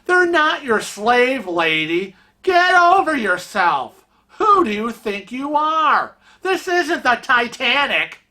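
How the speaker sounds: calling her out. Retold or imitated. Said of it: "this couple ... goes".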